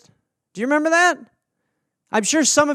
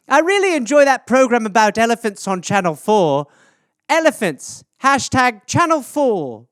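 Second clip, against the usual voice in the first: higher, cheery mock-mom voice; imitating mom's posts; 3 semitones higher, 3 dB louder than usual. Mother posting online, in a mock cheery higher voice. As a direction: play a sweetly chatty mother. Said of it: "That's all it would be".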